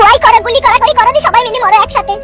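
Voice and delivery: high, sharp mother's scolding. Acted. Mother scolding her son for planning revenge, high and sharp.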